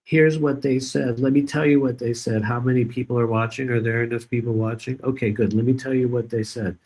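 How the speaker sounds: lightly voiced attention-seeking streamer; mocking a whiny streamer. Streamer griping to viewers, a mocking put-on voice.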